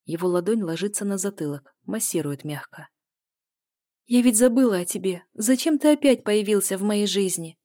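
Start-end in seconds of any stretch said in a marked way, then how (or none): 4.1-7.6 sincere plea. A narrator's reading. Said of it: "спросила я искренне".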